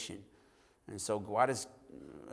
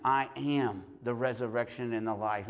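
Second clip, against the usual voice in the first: "am" leaned on, the rest in the usual voice; stress on AM. Shown as a demonstration. Preacher meditating on each word in turn, stress on "am". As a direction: put the weight on "am" after "I". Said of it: "each word one at a time".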